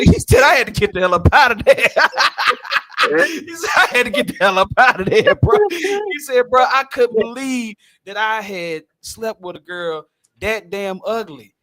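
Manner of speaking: high, loud, laughing through the punchline; cracking up while telling it; a laughing shout of disbelief; laughing retelling. Retold or imitated.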